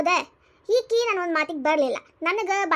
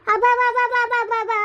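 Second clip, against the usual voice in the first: slow, drawn-out higher sarcastic wonder; mocking amazement; 5 semitones higher, 4 dB louder, much slower than usual. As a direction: stretch it out, scoffing at him. Mother mocks son's new love.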